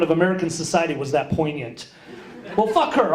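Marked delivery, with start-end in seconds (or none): 2.6-3.1 slightly raised, dismissive retort; understated indignant comeback; mild defiance. Retold or imitated. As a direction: shrug off the critic with wounded pride. Defiant first reaction to the grunt.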